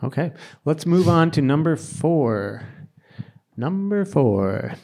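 rhythmic auctioneer patter. Pretend. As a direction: call it out like an auctioneer. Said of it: "I'm doing an auctioneer thing now".

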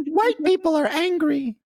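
put-on high slow childish voice, laughing; kid voice. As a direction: laugh through a childlike squeak. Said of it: "Fiona was like".

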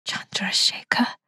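whispered name, barely there; very softly. A narrator's reading. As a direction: breathe the name in fearful hope. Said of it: "very softly".

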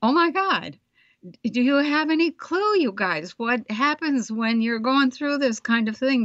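high, incredulous outburst; mock despair at the task; exasperated disbelief. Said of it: "I was thinking".

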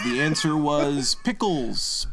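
slow, condescending host voice; smug Alex impression. Cohost imitating a smug quiz host, slow and condescending. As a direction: talk down to the contestants, slowly. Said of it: "and he'll just say".

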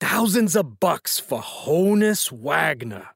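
slow, deliberate old mobster voice, lightly put on; a deliberately bad take on Junior, drawn out slowly; awful Junior impression. Shown as a demonstration. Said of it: "this is me doing an awful impersonation".

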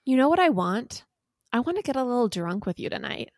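dramatic love-text reading; reading Jeff's text. Acted. Host reads Jeff's text to co-host, dramatic reading. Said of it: "So he says".

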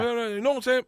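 imitated Black American speaker. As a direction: do a playful Black American accent impression. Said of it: "It's a black guy saying".

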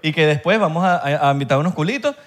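playful imitation of a Panamanian accent; playful mock Panamanian slang talk, a bit fast at the end. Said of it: "¿Cómo es el tú en Panamá?". (imitación juguetona del acento panameño)

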